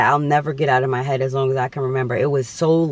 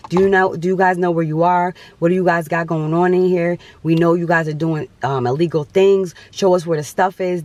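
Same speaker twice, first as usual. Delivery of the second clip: mildly raised voice imitating screaming officers; retold screaming; 3 semitones higher, 3 dB louder than usual. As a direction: press the questions like police mid-raid, slightly raised. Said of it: "they're screaming".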